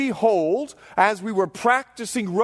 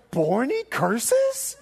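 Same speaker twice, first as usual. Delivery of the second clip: slow laughing tease; rowing buddy gleefully teasing, slow laugh; 2 semitones higher, much slower than usual. Retold or imitated. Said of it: "And he goes".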